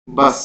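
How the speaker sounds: "बस" with the final s carried on; trailing wave. Shown as a demonstration. Teacher showing the wave after a word, lingering "बस". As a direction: let the s of "बस" linger. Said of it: "स के आगे भी एक लहर चलती है".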